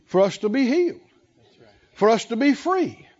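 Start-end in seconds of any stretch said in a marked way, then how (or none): none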